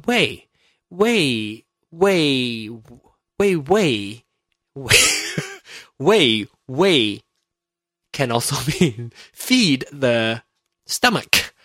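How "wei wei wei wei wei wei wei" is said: answering phone. Shown as a demonstration. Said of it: "pick up the phone and you say".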